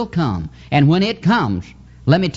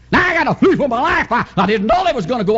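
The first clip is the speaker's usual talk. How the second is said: mock panic; 7 semitones higher than usual. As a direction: play the panicked believer running off. Acting a fleeing believer.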